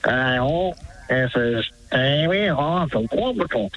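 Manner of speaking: slow, lightly put-on Aussie impression; drawn-out attempt at the singer's voice; a country singer. Shown as a demonstration. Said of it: "could you say Quambatook in the singer's speak?".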